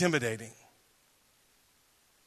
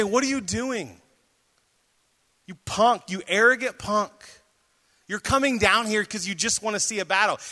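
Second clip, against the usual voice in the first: imitated older-brother taunt; lightly acted, belittling jeer; mocking; 3 semitones higher than usual. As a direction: needle him with mild scorn. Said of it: "starts mocking him".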